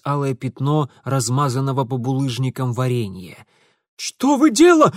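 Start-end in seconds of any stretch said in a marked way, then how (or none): 4.0-4.9 put-on high, loud panicked young man's cry; Ingvar yelling. A narrator's reading. Ingvar yells at Mitya over the stolen carriage, high panicked cry. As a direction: squeal it out in alarm. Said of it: "завопил Ингвар".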